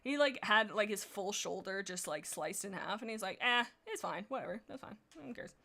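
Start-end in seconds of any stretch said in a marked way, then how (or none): 3.4-5.5 mock shrug-it-off voice, trailing softer; unbothered. Imitating Quailfeather with his shoulder sliced, unbothered. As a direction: brush it away, fading to a murmur. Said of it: "Quailfeather is not bothered".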